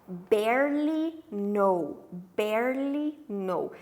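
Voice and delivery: "Barely know" said very slowly, syllable by syllable; slow model of "barely know" for students; pronunciation demo. Shown as a demonstration. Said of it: "Olha a pronúncia". ("barely know" bem devagar, como modelo de pronúncia)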